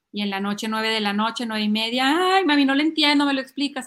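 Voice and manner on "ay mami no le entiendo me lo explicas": mock kid's plea, raised voice; whining child. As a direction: whine for mom's help. Niño se queja de noche. (quejido fingido de niño)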